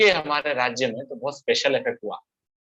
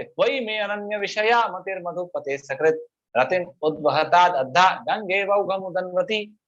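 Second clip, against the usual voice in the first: slightly raised, even-toned scripture chant; Sanskrit verse recitation; 3 semitones higher than usual. Acted. Teacher quoting Kunti's prayer to Krishna, lightly chanted. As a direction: break into a steady verse chant.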